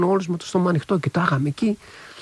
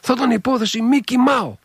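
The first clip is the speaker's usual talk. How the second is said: sly smiling reply; 9 semitones higher than usual. Retold or imitated. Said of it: "με το πονηρό χαμογελάει και λέει".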